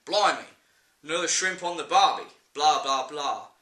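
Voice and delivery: light mock Aussie accent; hammy Australian stereotype; bad Australian impression. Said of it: "Worst Australian impression ever".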